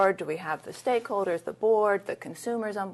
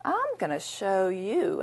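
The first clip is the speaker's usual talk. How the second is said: slow, stretched-out vow; defiant resolve; much slower than usual. Retold or imitated. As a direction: deliver it as a measured, determined challenge. Retells her defiant inner vow.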